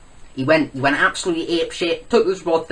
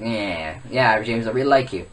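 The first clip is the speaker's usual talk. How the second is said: lightly voiced low impression; half-hearted impression, pitched down; Eric; 5 semitones lower, 3 dB quieter than usual. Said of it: "do my best impression of Eric".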